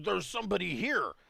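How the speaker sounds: high, rough, gruff half-orc character voice. Narrating a scene, voice the half-orc's reply after being bumped, half-orc voice. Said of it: "And the half orc says".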